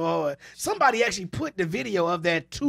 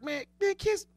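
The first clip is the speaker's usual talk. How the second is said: put-on high cranky old barber rant; Eddie from Barbershop; 3 semitones higher, 5 dB quieter than usual. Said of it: "I'ma do my Eddie from Barbershop".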